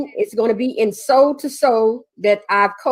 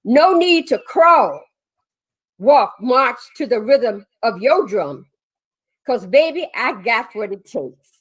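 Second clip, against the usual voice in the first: poem reading. Acted. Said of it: "I hope that you all will enjoy this".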